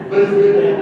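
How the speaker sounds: words squeezed out through laughter; laughing. Real, not acted. Speaker to audience right after his joke, laughing.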